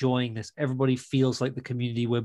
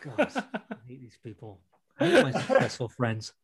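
half-laughing confession. Real, not acted. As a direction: laugh through the words. Laughing at her own envy.

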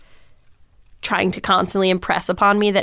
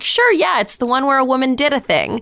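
put-on dismissive boyfriend; 5 semitones higher than usual. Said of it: "He's like".

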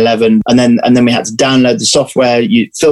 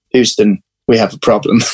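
lightly put-on American accent; 3 semitones lower than usual. Actor delivering the film's famous line, American accent. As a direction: try your best American accent. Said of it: "in my best American accent".

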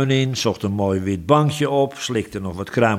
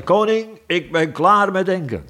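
high, stretched yawn-talk; mock yawning voice; 10 semitones higher than usual. A narrator's reading. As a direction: announce it through a big yawn. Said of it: "gaapte luid en zei".

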